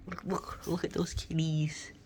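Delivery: hushed whisper. Real, not acted. Owner whispering to viewers while filming her kittens. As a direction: whisper so the kittens stay put.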